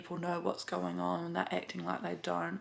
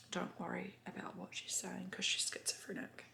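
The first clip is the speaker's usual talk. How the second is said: confiding whisper; 8 dB quieter than usual. Retold or imitated. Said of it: "the staff come up to me and said".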